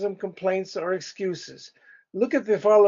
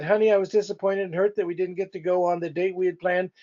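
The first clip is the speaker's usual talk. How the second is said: quick quoted line; much faster than usual. Retold or imitated. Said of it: "if you said".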